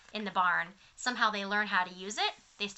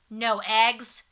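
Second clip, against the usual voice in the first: cried out; 7 dB louder than usual. Acted. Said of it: "cried Farmer Brown".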